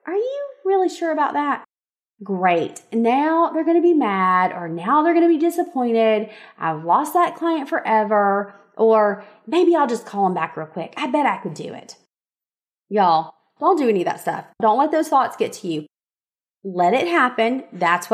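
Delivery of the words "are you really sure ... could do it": a hint of nagging self-doubt; mock anxious inner voice. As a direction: play your own second-guessing brain, a touch panicky. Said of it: "serve up these awesome thoughts like".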